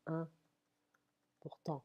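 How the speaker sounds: important drawn out slowly, first syllable like French un, then portant; French nasal "un" onset. Shown as a demonstration. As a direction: split important slowly, opening on the nasal French number one. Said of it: "It's like we say number one".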